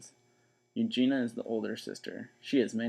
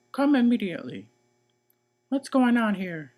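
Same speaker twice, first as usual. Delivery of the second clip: put-on 1 stern older sister; 10 semitones higher, 7 dB louder than usual. Eugenia voice.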